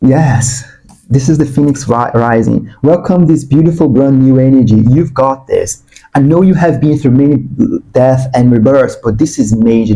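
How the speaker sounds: lively, excited encouragement; too excited. Real, not acted. Reader welcoming the collective's rebirth, too excited. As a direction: cheer them on with real excitement. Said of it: "I'm getting too excited".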